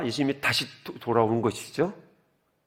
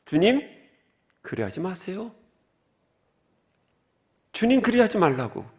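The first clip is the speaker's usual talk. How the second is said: Peter protesting; 5 semitones higher than usual. Retold or imitated. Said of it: "베드로가 예수를 붙들고 뭐라 그래요".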